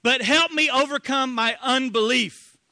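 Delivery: the father pleading with Jesus, slow and loud; crying out. Acted. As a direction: cry it out in anguish. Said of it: "cried out".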